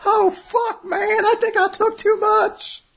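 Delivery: high, slow, dazed stoner voice; stoned bear voice. Retold or imitated. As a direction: groan like you overdid it.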